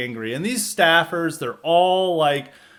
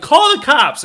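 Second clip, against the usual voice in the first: mock yell; 12 semitones higher, 10 dB louder than usual. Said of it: "and they're like".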